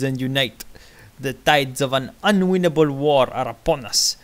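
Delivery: booming rally oration; dictator's speech. Acted. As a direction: address the crowd like a strongman. Continues reading the speech.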